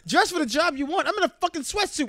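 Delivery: high, loud indignant rant; mock outrage. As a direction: rant like you've been insulted. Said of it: "I'm like".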